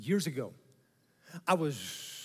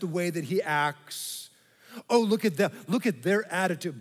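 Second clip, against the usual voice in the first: hammed-up disapproving gossip; mock gossip. Mocking judgmental churchgoers.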